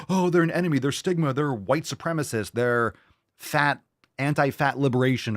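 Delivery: high, gasping, hammed-up offended voice; mock outrage. Mocking critics-as-enemies in a hammed-up outraged voice. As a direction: play the offended activist, over the top.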